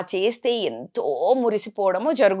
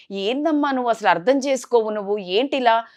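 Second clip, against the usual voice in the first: irritated raised voice; 4 semitones higher, 3 dB louder than usual. Retold or imitated. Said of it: "గట్టిగా ఇంకా voice raise అయింది".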